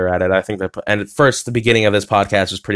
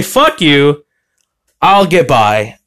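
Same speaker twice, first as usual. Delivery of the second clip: louder, mock-defiant fuck you; defiant retort; 4 semitones higher, 4 dB louder, slower than usual. Repeating his comeback to a doubter, louder defiant retort. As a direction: throw it back at the critic with a grin. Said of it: "I say".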